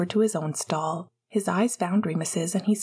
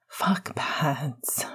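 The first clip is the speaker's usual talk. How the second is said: lightly breathed curse; 3 semitones lower than usual. A narrator's reading. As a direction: let it out on a breath. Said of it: "Remus breathed".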